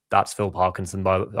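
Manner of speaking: lightly attempted Scottish accent; abandoned attempt at a thick Scottish accent. Podcaster quoting an old manager's interview, in a rough Scottish accent. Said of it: "I won't do the accent".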